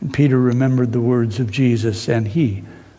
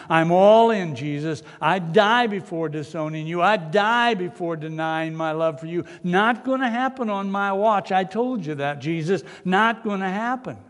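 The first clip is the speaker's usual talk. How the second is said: higher, brash insistence; cocky Peter; 5 semitones higher than usual. Acted. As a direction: swagger through the promise.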